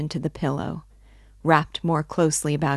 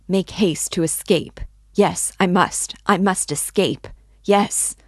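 rising, louder urgent insistence; feverish urgency; 3 semitones higher, 4 dB louder than usual. Acted. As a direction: press harder and louder as panic builds. Feverish resolve to flee.

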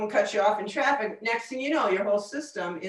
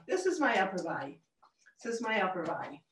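lighter and softer, from the chest up; thinner, quieter tone with no grounding; softer upper body voice; 6 dB quieter than usual. Shown as a demonstration. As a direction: let the voice lift off the ground, softer. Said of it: "a whole different tone of voice in the upper body".

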